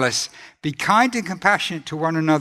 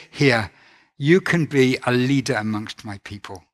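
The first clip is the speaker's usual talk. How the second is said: gentle offer; 4 semitones lower than usual. Retold or imitated. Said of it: "No, he said".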